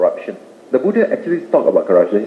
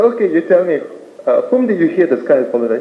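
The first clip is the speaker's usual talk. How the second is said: higher-pitched storybook questioner; questioning lion; 5 semitones higher than usual. Acted. Lion questioning a fleeing animal, lightly acted interrogation. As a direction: play a lion tracing a rumor.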